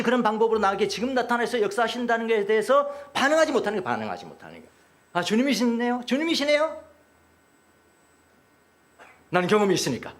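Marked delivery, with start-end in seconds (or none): 5.1-6.8 lifted voice, rising on the repeat; acted dawning recognition; delighted recognition. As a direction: recognize someone dear and say it higher.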